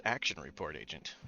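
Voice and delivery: smooth, low and silky; silky sexy voice. Acted. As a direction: purr it seductively. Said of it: "smoothest, silkiest, sexiest voice".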